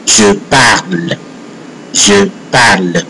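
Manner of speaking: "Je parle" ending on the L; French "Je parle", E left silent; silent final E. Shown as a demonstration. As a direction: say "parle" as one syllable, no E at the end. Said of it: "this E does not sound".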